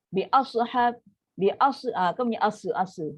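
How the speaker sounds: bi ashab with the sad bouncing into asa; bouncing wrongly. Shown as a demonstration. Teacher mimicking the wrong bouncing sad. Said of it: "sebab apa dia dah melantun".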